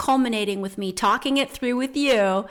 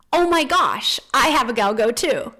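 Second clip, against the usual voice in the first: excited gushing; 3 semitones higher, 6 dB louder than usual. Retold or imitated. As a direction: gush like you just spotted a kindred spirit. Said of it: "I get so excited".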